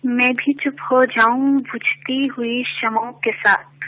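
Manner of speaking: stately nazm recitation. Acted. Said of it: "ایک نظم پیش کرنا چاہوں گی".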